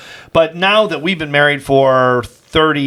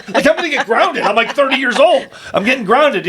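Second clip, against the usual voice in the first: laughing; 8 semitones higher than usual. Real, not acted. Laughing about being grounded.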